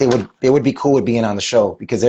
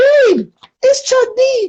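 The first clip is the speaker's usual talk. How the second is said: voice shooting suddenly very high, slow; 4 dB louder than usual. Quoting what the speaker told their wife: suddenly high-pitched voice. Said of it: "I had a high pitched voice all of a sudden".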